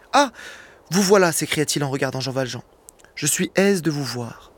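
narration posée, lecture à voix haute; lecture de roman. A narrator's reading. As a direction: raconte la scène au public comme un conteur. (lecture de Victor Hugo, ton de conteur)

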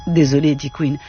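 measured audiobook reading voice; story narration. A narrator's reading. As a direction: read the novel aloud, steady and composed. Reads a novel aloud.

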